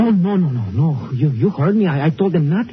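put-on a touch of panic, in a Mexican accent; scared Mexican-accented pleading; frightened pleading. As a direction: beg the gunman not to shoot. Gunman threatens him at gunpoint.

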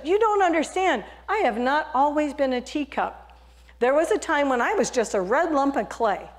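high, lightly voiced talking teacup; a hint of a plaintive teacup. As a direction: give the little teacup a voice.

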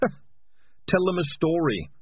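slow, high chuckling jibe; laughing mockery. A narrator's reading. Morris sneering at the storyteller, slow laugh. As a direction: laugh it out slowly.

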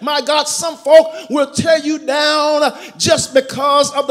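loud, driving sermon climax; preaching at full force. Acted. Pastor exhorting the congregation about jealous friends, loud preaching. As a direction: build the congregation up, preaching hard.

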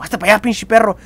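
a hint of a gruff shoo-away voice; lightly voiced hiss to get lost; shooing him off. Shooing the rival from the girl, lightly voiced. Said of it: "casi diciéndole como".

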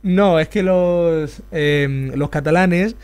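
hint of a mocking impression; imitating an acquaintance. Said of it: "te pareces a uno que yo me conozco que decía".

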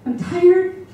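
put-on high-pitched, exasperated plea to the kids; retold outburst of a mom at her limit; frustrated mom. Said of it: "I'm frustrated".

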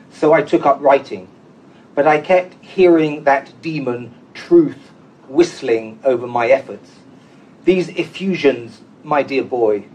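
measured, unhurried reading of a poem with pauses between phrases; poetry reading. Acted. Poet reads his Laforgue translation to the audience, measured poetry reading.

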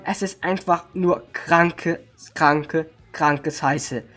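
slow, hoarse and low. Real, not acted. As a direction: rasp it out, voice worn. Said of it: "ich bin heiser".

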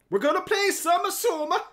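put-on high, loud, ham accent like a Greek grandmother; odd mock accent. Streamer announcing the game in a silly mock Greek grandma accent. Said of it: "I don't know what accent that was".

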